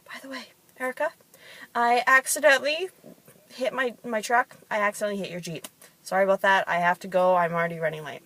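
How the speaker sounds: lightly voiced husband owning up in passing; husband's offhand confession. Husband tells Erica he hit her Jeep, mock-casual confession.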